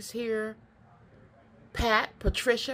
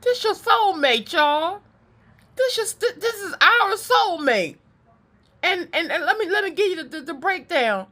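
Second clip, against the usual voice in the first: high, loud, tickled laughing delivery; 8 semitones higher, 6 dB louder than usual. Real, not acted. Reader cracking up while announcing the soulmate to viewers, laughing. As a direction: barely get the words out through real laughter. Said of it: "I'm not laughing at this person".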